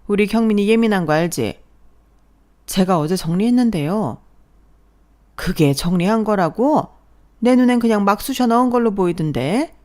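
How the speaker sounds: lightly voiced mother-in-law picking at the kitchen; scolding mother-in-law. (부엌 정리를 트집 잡는 시어머니, 살짝 큰 소리로)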